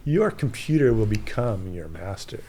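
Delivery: regal purring riddling voice; Sphinx voice. Shown as a demonstration. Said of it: "you have to say it like Sphinx".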